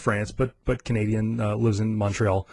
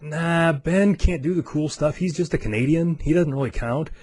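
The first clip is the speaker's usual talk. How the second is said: teasing dismissal; 5 semitones higher than usual. Retold or imitated. Traveler teasing Canadian friend before customs agent, dismissive. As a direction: wave him off in a lilting mock brush-off.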